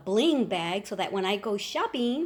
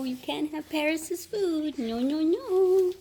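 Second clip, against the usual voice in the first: ordinary delivery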